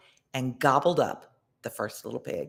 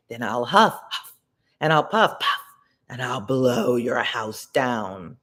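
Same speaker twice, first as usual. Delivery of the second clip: wolf voice; 2 semitones lower than usual. Acted. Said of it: "the wolf said".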